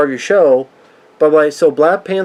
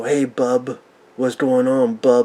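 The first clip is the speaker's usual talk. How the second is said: put-on tough, brawler comic-book superhero voice; 3 semitones lower, 5 dB quieter than usual. Mocking how a cartoon hero sounds, Wolverine-like Captain America voice. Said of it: "he sounds like he's gonna go".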